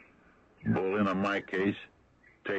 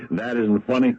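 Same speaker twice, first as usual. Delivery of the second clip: sharp retort; 5 semitones higher, 9 dB louder than usual. Real, not acted. Sheriff snaps at Decker.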